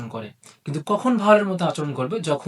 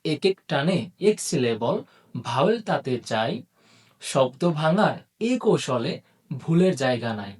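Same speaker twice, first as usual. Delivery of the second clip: slow, measured verse with lilting phrases; rhyme recitation. Acted. Teacher opens the syllable lesson with a rhyme, slow recitation.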